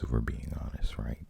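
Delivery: hushed confiding aside; whispering. Real, not acted. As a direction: drop to a secret whisper. Conspiratorial aside about small markets.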